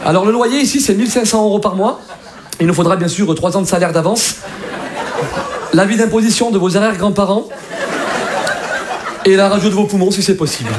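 lightly voiced formal Paris agent; Parisian letting agent. Paris agent lists demands to a tenant, lightly voiced formal official. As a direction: politely list demands like a fussy Paris agent. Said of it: "à Paris, on te demande des pièces".

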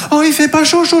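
high, lightly put-on stranger's remark; passerby imitation. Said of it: "j'entends un". (imitation légère d'un passant, voix plus aiguë)

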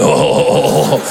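string of low, voiceless ohs; hammed-up low, breathed oh sounds; low lustful groans. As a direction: groan out a mock-lecherous oh oh oh. Imitating reaction to breasts.

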